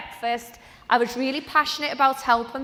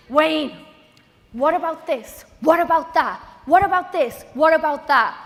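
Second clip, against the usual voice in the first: higher, louder rapid-fire questions; hammed-up excited nagging, pitched up; mock eager pestering; 4 semitones higher, 5 dB louder than usual. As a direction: badger someone with one question after another. Retold pestering of busy upline.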